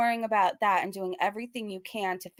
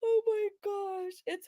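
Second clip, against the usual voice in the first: drawn-out disbelief; 11 semitones higher, slower than usual. Real, not acted. Reacting in disbelief.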